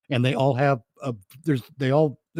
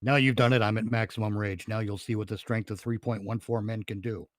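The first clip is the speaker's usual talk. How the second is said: emotionless rage; 3 semitones lower, 4 dB quieter than usual. Retold or imitated. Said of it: "Even when he's angry, he's emotionless".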